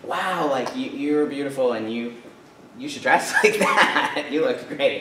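lightly gushing praise, lifted pitch; imitating encouraging woman. Older woman encouraging speaker in dressing room, mock gushing. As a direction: play a well-meaning older woman being nice. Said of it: "trying to be so nice, like, encouraging".

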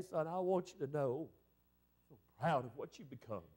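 low, soft, gently spoken pride; hushed, heartfelt imitation of mother's praise; tender retold mother. Mother's loving words, retold.

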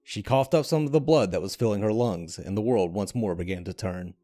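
measured, dramatic storytelling read; story narration. A narrator's reading. Narrator telling a game's myth to viewers, dramatic storytelling. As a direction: draw the listener into a dark fantasy tale. Reads a fantasy story aloud.

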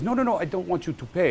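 high, insistent cooper's voice; Philippe. Retold or imitated. Voicing cooper refusing payment.

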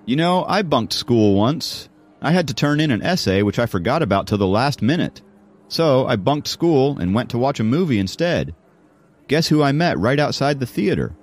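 lively confiding schoolboy; Jacob, telling a tale. Acted. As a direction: build up the anecdote with a lifted voice. Jacob tells his school story.

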